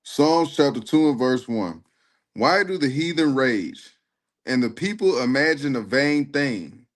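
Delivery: slow, measured scripture reading; solemn Bible recitation. Shown as a demonstration. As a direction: read the verse aloud with weight. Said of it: "Read, read me Psalms two and one".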